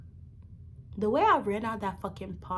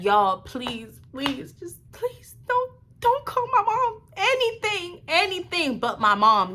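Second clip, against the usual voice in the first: very high, squeaky imitation of crying; drawn-out mock-sobbing plea climbing very high; tearful begging; 9 semitones higher, slower than usual. Teen pleading with police about mom, imitated crying. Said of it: "I was really crying".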